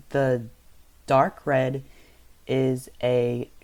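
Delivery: flat, robotic monotone. Real, not acted. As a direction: drone it out like a robot. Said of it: "sorry, I was talking like a robot right there".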